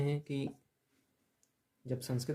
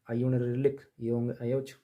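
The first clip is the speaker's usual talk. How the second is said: quick reading. Shown as a demonstration. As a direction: rattle through the sutras fast. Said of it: "एक बार मैं जल्दी जल्दी पढ़ देता हूँ".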